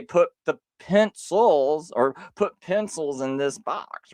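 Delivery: slow, lifted rise on "pencils"; stressing pencils. Shown as a demonstration. Showing the plural form, "pencils" slowed and lifted. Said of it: "you would need to say".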